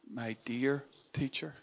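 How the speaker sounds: soft, slow and tender; intimate. Shown as a demonstration. Preacher showing the tender meaning of Rabboni, intimate. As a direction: say it as to someone dearly loved. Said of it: "Rabboni is actually something like more".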